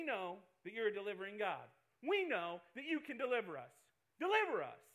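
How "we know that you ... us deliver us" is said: louder, rising cry of deliver us; urgent plea. Acted. Preacher pleading with God before the congregation. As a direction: build to a shout.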